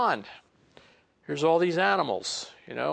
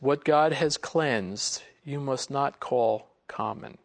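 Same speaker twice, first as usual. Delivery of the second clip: solemn divine voice; slower than usual. Acted. Voice of God speaking.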